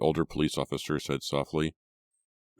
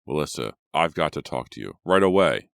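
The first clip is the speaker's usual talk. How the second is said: urgent breathless rush; 6 dB louder than usual. Acted. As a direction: gasp it out urgently. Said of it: "Dave said breathlessly".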